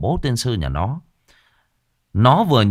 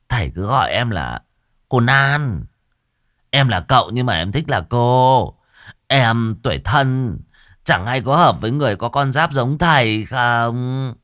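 coy effeminate flirting; 2 semitones higher than usual. Acted. Effeminate man flirting with shaman.

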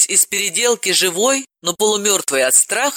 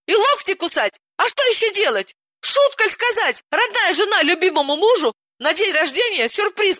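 very high, theatrical lament; Galina, dramatic; 13 semitones higher than usual. Acted. Galina tells Dalila she should be sobbing, very high and theatrical. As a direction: wail it like a gossip.

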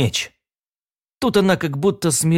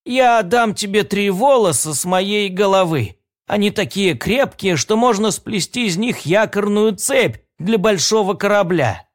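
put-on sweet old lady; 5 semitones higher than usual. Old woman offers her hair.

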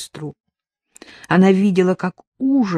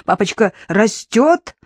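creepy father voice; 4 semitones higher, 6 dB louder than usual. Acted. Roberta voicing her father, leering and sweet. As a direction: croon it like the abuser father.

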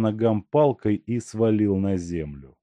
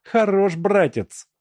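menacing; 11 semitones higher, 4 dB louder than usual. A narrator's reading. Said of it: "грозно произнесла Машка".

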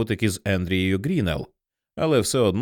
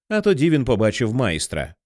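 ordinary delivery

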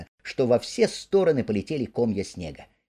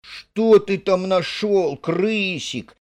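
higher, slow wondering ask; curious question; 8 semitones higher, 4 dB louder, slower than usual. Acted. Mole asking Rat what he dug up. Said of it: "спросил Крот".

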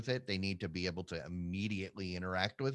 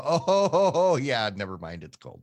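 loud, high delight, then deflating; excited then deflated; 6 semitones higher, 10 dB louder than usual. Retold or imitated. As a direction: shout with glee, then drop it. Acting out joy then letdown.

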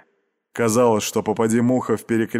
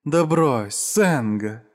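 ласково; 2 semitones higher, much slower than usual. Acted. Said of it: "ласково произнесла она".

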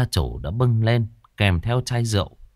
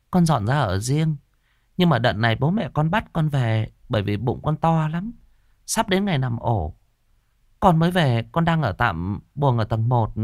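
put-on higher, polite young daughter-in-law; young woman's voice; 5 semitones higher than usual. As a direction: answer the master shyly and respectfully. Young pregnant woman speaks. (giọng cô gái trẻ cao, lễ phép)

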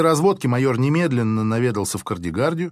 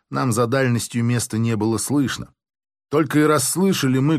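plain reading voice

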